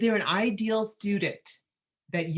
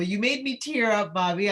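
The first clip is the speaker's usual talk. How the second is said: emotional; 5 semitones higher, 4 dB louder than usual. Real, not acted. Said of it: "today I'm so emotional".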